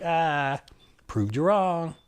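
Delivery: high, sing-song told-you-so; smug gloat. Retold or imitated. Gloating at the British doctor, smug and high. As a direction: savour being right.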